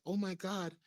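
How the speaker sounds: imitating her in a high-pitched voice; feigned innocence. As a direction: pretend to be surprised, pitched well up. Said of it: "she pretends like".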